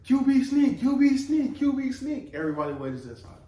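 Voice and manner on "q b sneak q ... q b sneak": high shouting call. Retold or imitated. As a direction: shout it to the defense. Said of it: "So the dude says".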